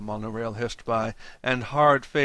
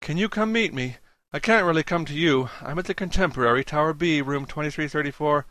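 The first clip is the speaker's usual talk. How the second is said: put-on anxious young man, higher voice; 4 semitones higher than usual. Julius begs the doctor to come.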